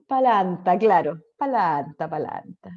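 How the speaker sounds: mock posh-lady "Palanta"; snobbish lady voice. Imitating an upper-class old woman's speech. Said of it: "como una vieja pituca".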